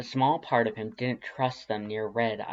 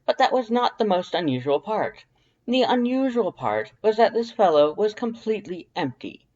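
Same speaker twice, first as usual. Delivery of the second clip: high, loud, proud skeleton voice; Papyrus storytelling voice; 7 semitones higher, 8 dB louder than usual. A narrator's reading. Papyrus telling Dance about the beach, high and loud. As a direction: tell it like a grand proud skeleton.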